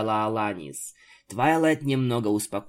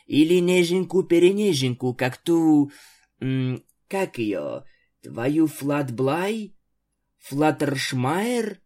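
mocking; 3 semitones higher than usual. A narrator's reading. Mocking Twilight's gentle friend.

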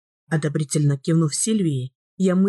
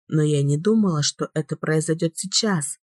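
usual speaking voice

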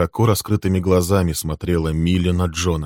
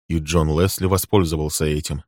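plain reading voice

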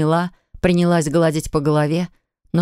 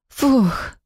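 high, breathy puff of relief; relieved exhale; 7 semitones higher than usual. A narrator's reading. Polina sighing after Max drives away, relieved puff. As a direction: let the tension out in one sigh. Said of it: "испытала неимоверное облегчение".

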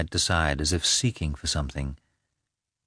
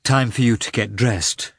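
recovering from tears; 4 semitones higher, 3 dB louder than usual. A narrator's reading. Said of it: "after a pause when she had recovered".

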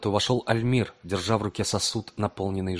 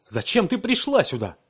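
high, loud angry cry; angry outcry; 11 semitones higher, 4 dB louder than usual. A narrator's reading. Scientist catches his wife in the lab: high angry outcry. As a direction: cry out in anger. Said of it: "вскричал он с гневом".

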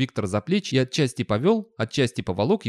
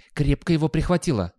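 cool, higher-pitched aside; cool remark; 5 semitones higher than usual. A narrator's reading. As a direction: remark coolly, with little feeling. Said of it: "хладнокровно заметил Гаспод".

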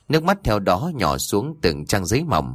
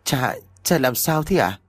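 crying out; 5 semitones higher than usual. Acted. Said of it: "mà khóc".

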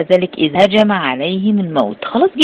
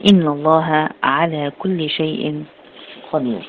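slow measured recitation; slow, reverent recitation fading at the end; Quran recitation. Acted. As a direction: intone the verse slowly and reverently.

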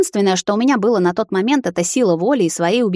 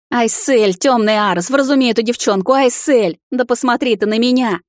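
higher, pleading wail; desperate yelling; 5 semitones higher, 3 dB louder than usual. A narrator's reading. Frantic vampire begs the girl to look at him, high exasperated cry. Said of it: "вопил парень".

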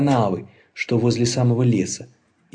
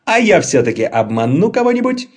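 high, loud insistent troll voice; insisting; 7 semitones higher, 5 dB louder than usual. Acted. Laban insisting to Ludwig, high stubborn troll voice. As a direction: dig in your heels, higher and louder. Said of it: "настаивал Лабан".

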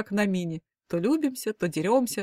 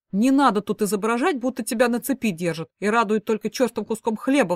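rebellious protest; 3 semitones higher, 5 dB louder than usual. Acted. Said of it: "взбунтовался папа".

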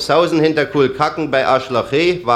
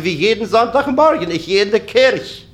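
put-on old woman; 6 semitones higher than usual. Oma antwortet.

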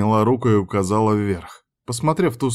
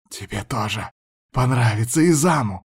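hissing like snakes. A narrator's reading. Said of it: "прошипели женщины, словно змеи".

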